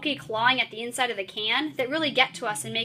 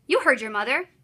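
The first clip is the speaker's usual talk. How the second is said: impatient and bossy; 3 dB louder than usual. Shown as a demonstration. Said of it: "making my voice sound a little impatient and bossy".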